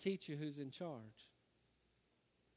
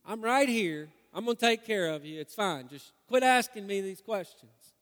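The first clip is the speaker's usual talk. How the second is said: exasperated snap at son; 5 semitones higher, 7 dB louder than usual. Retold or imitated. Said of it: "I finally look at him at some point and say".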